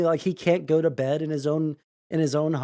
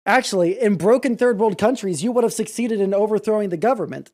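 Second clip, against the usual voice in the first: louder, higher sarcastic comeback; heated retort; 5 semitones higher, 4 dB louder than usual. Real, not acted. Streamer snapping back at Trump's statement, louder. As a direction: snap back at his claim.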